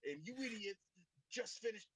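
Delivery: loud, high, strained whisper-shout; whisper yelling. Pretend. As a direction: scold the team in a whisper-shout. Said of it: "you know that whisper shout thing".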